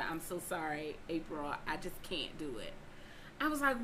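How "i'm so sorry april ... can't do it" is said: softer, lower sorry voice; mock sheepish apology. The man apologizing to April, soft and low. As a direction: mumble it like a guilty man.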